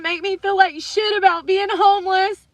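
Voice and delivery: fighting back a sob; crying. Real, not acted. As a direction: voice breaking with tears. Voice cracks recalling homelessness.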